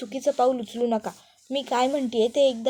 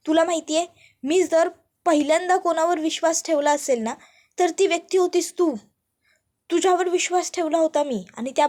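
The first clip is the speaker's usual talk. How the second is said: loud, much higher betrayed rant; furious accusation; 4 semitones higher, 3 dB louder than usual. Acted. Arnav confronting Ishwari over betrayed trust, loud furious voice. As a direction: throw the betrayal back at her.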